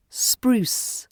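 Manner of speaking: "spruce" whispered, unvoiced; whispered model word. Shown as a demonstration. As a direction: breathe out "spruce". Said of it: "let's try some words".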